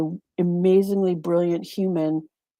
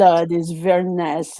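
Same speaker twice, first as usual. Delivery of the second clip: put-on French accent. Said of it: "I like to say it in the French accent".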